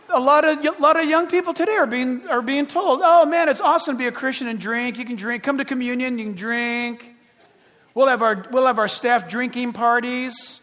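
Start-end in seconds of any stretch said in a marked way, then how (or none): 3.0-10.6 hammed-up carefree party talk, fast; mock the cool church line, loud and breezy. Mocking pro-drinking Christians.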